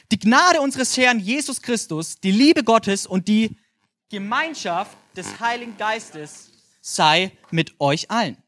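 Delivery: slow, deliberate Bible reading; solemn scripture reading. Acted. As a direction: read the blessing slowly and solemnly. Reads Bible verse aloud. (langsam und feierlich vorgelesen)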